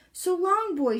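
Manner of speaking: high, bright call of goodbye; cheerful Pippi farewell. Acted. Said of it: "she said".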